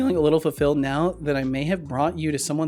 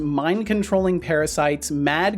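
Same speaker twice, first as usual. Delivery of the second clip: announcement read-out. Real, not acted. Reads out game announcement.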